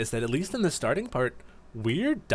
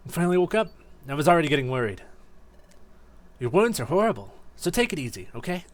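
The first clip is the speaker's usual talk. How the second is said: younger own voice; 3 semitones higher, faster than usual. Acted. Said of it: "Trico is easy. It's just my voice, uh, you know, aged down a little bit".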